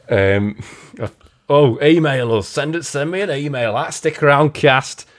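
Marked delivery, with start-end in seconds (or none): 1.5-5.1 lightly put-on frontman accent. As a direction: plug the email in a drifting mock accent. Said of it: "got this fucking accent now".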